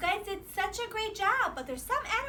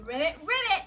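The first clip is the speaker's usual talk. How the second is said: lower, paired ribbits; frog ribbit; 4 semitones lower than usual. Shown as a demonstration. Host asks children what goes ribbit, low croaking. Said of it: "What goes ribbit".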